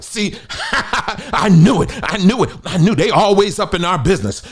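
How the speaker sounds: mock triumphant. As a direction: parody a smug "told you so". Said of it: "taking notes and being like".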